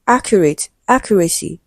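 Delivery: "accurate, accuracy", each stressed on "ac"; first-syllable stress. Shown as a demonstration. Teacher giving students stress examples, first syllable stressed in "accurate" and "accuracy". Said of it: "stressed on the first syllable".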